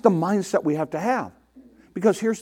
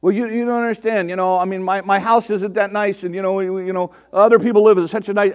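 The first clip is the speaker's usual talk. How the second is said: mock complaining. Voicing a complainer's rambling excuses.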